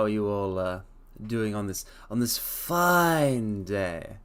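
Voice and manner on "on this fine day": drawn-out grand greeting. Acted.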